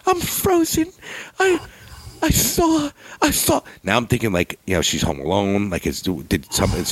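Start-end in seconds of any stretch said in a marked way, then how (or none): 0.1-3.6 much higher, slow frightened mother; a mom too scared to move. Retold or imitated. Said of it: "mother continues on phone".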